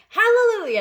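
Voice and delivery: very high, loud cry of joy; joyful shout. A narrator's reading. Aunt whoops over the giant peach, very high and loud. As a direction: whoop it out in triumph. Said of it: "Aunt Spiker shouted".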